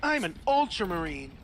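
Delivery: lightly voiced anime protagonist; a hint of a heroic anime lead; earnest determined anime hero. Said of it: "why do you sound like an anime protagonist".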